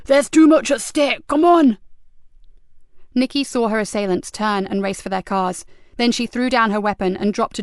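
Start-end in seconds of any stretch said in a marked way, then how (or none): 0.1-1.8 loud, high urgent yell; urgent shout. A narrator's reading. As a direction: hurry them off. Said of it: "screamed Cox".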